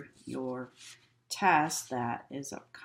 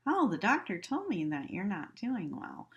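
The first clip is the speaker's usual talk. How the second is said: higher, breezy; careless; 4 semitones higher than usual. Shown as a demonstration. Nurse breezily telling a patient bad news, higher. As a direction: toss off bad news lightly. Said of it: "I'm not gonna go in and say".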